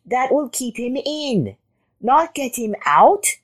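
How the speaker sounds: high rabbit protest. A narrator's reading. Rabbit objecting to Jackal's plan, high protest. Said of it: "protested the rabbit".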